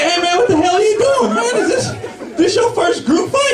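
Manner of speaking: very high, loud protest; indignant yelling. Acted. Fighter confronting a man in a group fight, high indignant yell. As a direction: holler in disbelief at his stupidity. Fighter challenges man interrupting slow-motion brawl.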